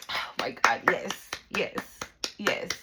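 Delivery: breath-voiced whisper of approval; whispered cheer. Spirit cheering on the listener, excited whisper.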